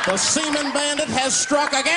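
high, proclaiming villain act; hammed-up masked bandit proclamation; triumphant bandit. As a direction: announce it grandly, pitched high. Burglar's theatrical calling card announcement.

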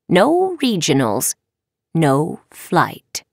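measured moral lesson; understated, regretful lecturing; lightly voiced stern professor. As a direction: spell out the consequences deliberately. Professor moralizes to her student.

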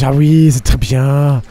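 mock French. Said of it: "Ah, Französisch".

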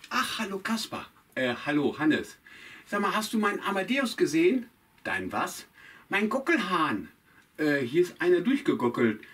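a flustered farmer chatting to Kasper; Hannes the farmer puppet. Acted. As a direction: puppet Hannes worried about his rooster.

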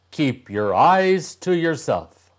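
the troll snaps a warning. A narrator's reading. Troll warns the tin soldier, loud and high. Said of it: "the troll said".

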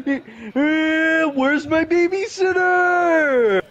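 high, slow shout; yelling across the room. Real, not acted. Shouting for teammate.

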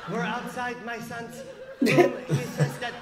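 lightly voiced mother playing nature-show host; measured, mock documentary commentary; documentary narrator mom. Mom narrates to camera outside son's room, documentary style. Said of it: "she's documenting the whole thing like she's, she's on Discovery".

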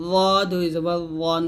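র as a thick voiced th with rounded vowel; tongue at upper teeth, full-mouthed র and রন; heavy ẓā. Shown as a demonstration. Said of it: "মোটা করে". (র মোটা করে, জিহ্বা উপরের দাঁতে)

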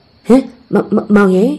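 slow, stammered disbelief; taken aback, halting on the first syllable; astonished. Acted. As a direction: stumble over the name in astonishment. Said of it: "အံ့တော်ဖြစ်သွားလေတော့တယ်".

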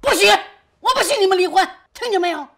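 very high, loud outburst; furious shouting. Acted. Mother forbidding son and wife to divorce, furious shout. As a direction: forbid it at the top of your voice.

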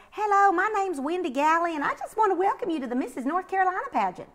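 high, fast, bubbly pageant-lady greeting; Wendy Galley voice. Retold or imitated. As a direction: chirp it like an eager pageant host on the phone. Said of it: "a lady that says".

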